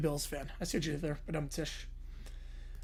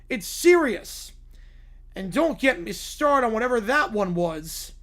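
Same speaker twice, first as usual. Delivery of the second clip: a hint of a Texan propane salesman, louder; Hank Hill; 3 semitones higher, 4 dB louder, slower than usual. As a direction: lecture them like a stern Texas dad. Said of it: "by Hank Hill".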